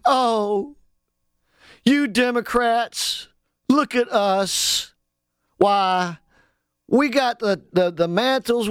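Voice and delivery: lightly mocking whine of helpless Republicans; groveling Republicans. Host mocks Republicans begging Democrats, light mock whine. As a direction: act out Republicans begging for help, a little pathetic. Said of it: "go groveling and crawling ... and say".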